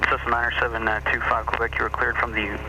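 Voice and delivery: air traffic control radio. Real, not acted. Controller reading clearance over radio.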